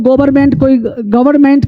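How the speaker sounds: "गवर्नमेंट" with every syllable and the R sounded; common misreading. Retold or imitated. English teacher quotes how many people misread it, R sounded. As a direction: say "गवर्नमेंट" as go-bar-ment or ga-var-ment. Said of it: "क्या क्या पढ़ते हैं".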